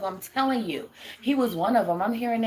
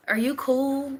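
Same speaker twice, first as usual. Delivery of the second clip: higher, playful teasing question; mock concerned check-in; 7 semitones higher, slower than usual. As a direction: tease the robot like you're checking on it. Teasing a robot in chat.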